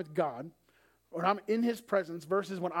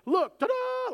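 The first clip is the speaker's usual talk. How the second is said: high, loud showman's reveal; triumphant ta-da; 6 dB louder, slower than usual. Acted. Father showing off his healed daughter, triumphant. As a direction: present it like a grand unveiling. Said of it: "Like the Simba moment".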